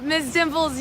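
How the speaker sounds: high, sing-song call to the pet. Real, not acted. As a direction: coo her pet's name up high. Scolding her pet, high voice.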